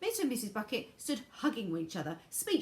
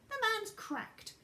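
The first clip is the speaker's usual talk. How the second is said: put-on old woman voice; 14 semitones higher, slower than usual. A narrator's reading. Grandma scoffing at Wonka.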